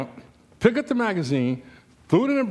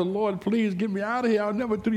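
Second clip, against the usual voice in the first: high, pleading bargain with God; mock desperate prayer; 7 semitones higher than usual. Preacher promising God while trapped, mock pleading. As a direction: beg to be let off, hammed up. Acting out silent panicked prayer.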